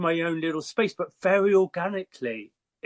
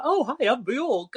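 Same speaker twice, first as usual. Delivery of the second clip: imitating a singer; 8 semitones higher, slower than usual. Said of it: "she'd be like".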